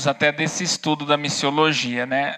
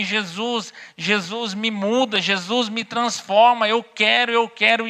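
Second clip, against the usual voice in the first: slow, raised, phrase-by-phrase prayer for repeating; lead-along prayer; 6 semitones higher, slower than usual. Retold or imitated. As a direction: lead someone through a heartfelt plea, drawing out each phrase. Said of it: "Repete comigo assim". (oração pausada para repetir)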